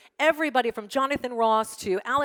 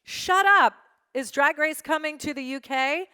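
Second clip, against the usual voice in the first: a squealed, much higher and louder shut up, then a rising question; shocked disbelief; 8 semitones higher, 5 dB louder than usual. Retold or imitated. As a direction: gasp it out like the news just broke. Shocked fan tweet read aloud.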